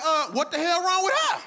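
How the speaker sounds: high, loud incredulous question; a parent baffled by the girl in the back; baffled disbelief. Retold or imitated. Mock baffled outburst. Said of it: "I'm looking like".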